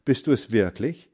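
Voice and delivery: high startled exclamation; astonished mother. Acted. Mother stunned to find her son dressed as a farm boy, surprised. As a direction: gasp it out in disbelief. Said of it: "rief Mutter".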